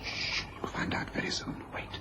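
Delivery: soft shushing whisper; quiet him without a sound; calm hushed whisper; hushing whisper. Acted. Hushing Watson while hiding.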